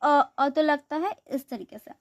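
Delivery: अ voiced on its own, clear and held; sound demo. Shown as a demonstration. Teacher shows how अ sits inside क. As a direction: isolate the vowel अ as a demo. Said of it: "जैसे क".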